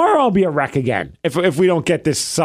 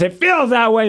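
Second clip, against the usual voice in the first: higher-pitched, mildly huffy retort; retold angry parting shot; 6 semitones higher than usual. Husband's last word before storming downstairs, retold huff. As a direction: throw out a last mock-angry line. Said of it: "Then I stormed downstairs".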